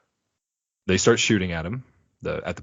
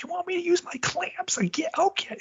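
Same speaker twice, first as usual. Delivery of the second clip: much higher, put-on dopey robot voice; dim-witted robot voice. Henchman Clamps, asked to use his clamps, in a high dopey voice. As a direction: play the thick henchman proud of his one trick. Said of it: "what a freaking genius".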